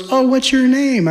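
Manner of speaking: high, loud, eager "what's your name"; eager greeting. Retold or imitated. A stranger eagerly asking your name, high and loud. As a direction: gush at meeting someone new. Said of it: "Someone goes".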